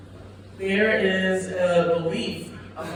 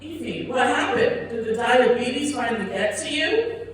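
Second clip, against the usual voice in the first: fellow comedian; 4 semitones higher than usual. Retold or imitated. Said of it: "a fellow comedian goes".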